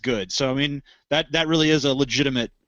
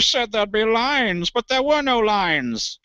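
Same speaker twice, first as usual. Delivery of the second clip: higher, slow mocking sarcasm; sarcastic; 8 semitones higher, 3 dB louder, slower than usual. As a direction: drag it out sarcastically. Mocking the news anchor's line.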